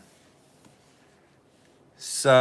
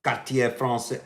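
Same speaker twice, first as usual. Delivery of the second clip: foreign accent in French. Real, not acted. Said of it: "I try to speak French".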